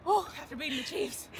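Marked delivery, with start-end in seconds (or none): 0.1-0.3 loud, slowed words breaking into laughter; laughing breathless. Real, not acted. Player after beating the Chiefs, laughing and breathless. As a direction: gasp it out between laughs. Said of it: "I'm all out of breath".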